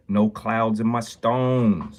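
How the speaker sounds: a light, slowed-down take on a famous rapper's boast; a rapper's voice. Retold or imitated. Jeweler showing off a stone to his stream, a light slow rap-star voice. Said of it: "a rapper's voice".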